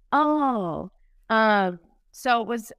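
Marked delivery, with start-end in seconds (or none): 0.1-0.9 drawn-out oh, pitched up; a long oh of it clicking; imagined realization. Retold or imitated. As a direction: act out someone catching on.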